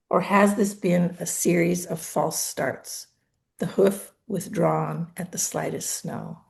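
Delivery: measured poetry reading with deliberate pauses; poem reading. Acted. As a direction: read your poem aloud, line by line, letting each phrase settle. Reads own poem aloud.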